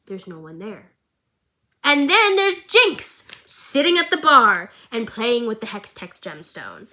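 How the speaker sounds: hushed bedtime-story voice for an empty bar; mock storybook narration. Vlogger reading the empty bar scene as a Christmas poem, hushed storybook. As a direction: read it like 'Twas the night before Christmas.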